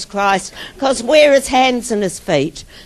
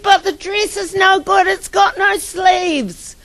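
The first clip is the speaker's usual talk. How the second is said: lightly voiced let-down girl, pitched up; mild mock dismay; 7 semitones higher than usual. Girl finds her new dress sleeveless, mild dismay. Sad girl's complaint, acted.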